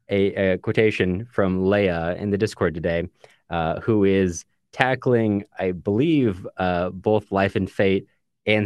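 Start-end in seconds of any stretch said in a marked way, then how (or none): none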